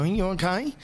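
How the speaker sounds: mock soothing Santa; lightly voiced Santa asking gently, over and over; a hint of a fussing Santa; Santa consoling. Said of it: "Like that".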